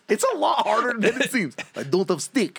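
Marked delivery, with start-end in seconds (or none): 1.7-2.6 mock Russian accent. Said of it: "why they became Russian".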